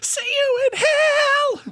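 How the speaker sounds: very high, drawn-out shriek; over-the-top high-pitched screech; mock screaming farewell. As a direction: wail it out loud and long.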